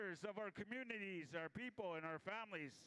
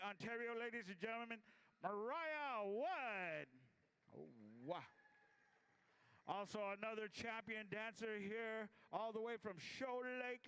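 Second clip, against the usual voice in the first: powwow emcee. Acted.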